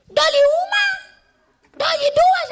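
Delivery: auction call. Pretend.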